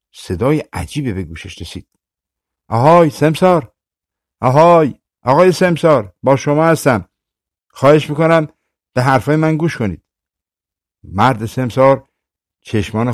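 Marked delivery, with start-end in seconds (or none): 2.7-3.7 calling out. Acted. Kettle calls to sleeping man. 4.4-4.9 calling out louder. Acted. Kettle calls to sleeping man. 5.2-10.0 pleading call. Acted. Kettle calls to sleeping man.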